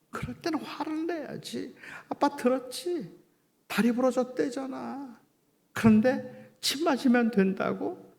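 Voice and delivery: high, strained protest after the shouting; reenacted father's upset, high-pitched remonstrating; pleading scolding outburst. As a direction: plead with your son to get angry, voice pitched high. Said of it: "저도 모르게 제가 소리를 질렀어요".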